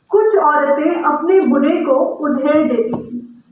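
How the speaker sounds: measured recital with pauses between phrases; poetry recitation. Acted. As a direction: recite your poem to an audience, phrase by phrase. Recites her own poem.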